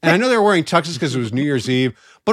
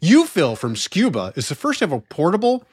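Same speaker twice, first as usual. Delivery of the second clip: ad read. Acted. Fake commercial read over music.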